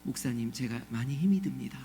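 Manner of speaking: low, hushed, over-composed confession; imitating placid, pious speech; mock pious politeness. Shown as a demonstration. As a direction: voice hardship far too nicely, like a recitation. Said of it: "저한테 그렇게 말씀하시겠어요?".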